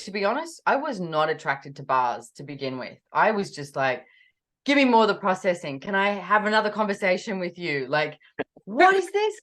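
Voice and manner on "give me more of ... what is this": eager plea rising to a high, loud question. Retold or imitated. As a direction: build from keen requests to a high-pitched demand. Acts out her eager questioning.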